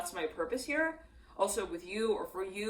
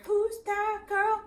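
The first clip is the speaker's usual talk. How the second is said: voiced quote; 14 semitones higher, 9 dB louder, much slower than usual. Channeled voice heard in reading.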